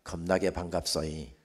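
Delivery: Jeolla dialect greeting. Shown as a demonstration. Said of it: "전라도 말로 인사하십니다".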